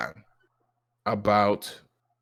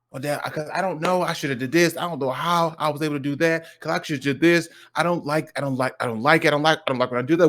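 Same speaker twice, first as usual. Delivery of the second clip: put-on higher, rambling kid excuses; imitating young son; 5 semitones higher, faster than usual. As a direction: voice a child piling up excuses without pause. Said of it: "'Cause then he goes".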